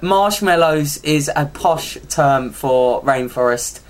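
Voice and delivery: slow, low posh royal impression; Prince Charles. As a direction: put on a measured, posh British royal voice. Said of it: "I did a well good Prince Charles accent".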